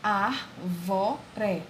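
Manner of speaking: "ar, vó, ré" in separate syllables. Shown as a demonstration. Teacher asking pupils to observe the syllables, "ar, vó, ré" split apart. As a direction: sound out "ar, vó, ré" one beat at a time. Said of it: "Ela é mais forte do que as outras".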